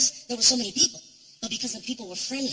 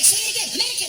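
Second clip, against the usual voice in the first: high, louder plea; thrilled; 10 semitones higher, 4 dB louder, faster than usual. Retold or imitated. Comic thrilled to be called American, high. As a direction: beg to hear it, up high. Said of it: "I was like".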